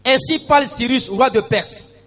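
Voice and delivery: proclaimed scripture reading. Acted. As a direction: read it out like a preacher.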